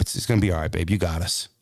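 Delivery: low, soothing, a hint of the wife; calm him down sweetly; reassuring wife. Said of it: "That's what she said".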